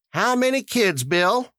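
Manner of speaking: high-pitched official asking formally; mildly formal inquiry; formal question. A narrator's reading. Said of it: "Mister Summers asked formally".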